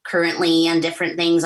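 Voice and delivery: ordinary talk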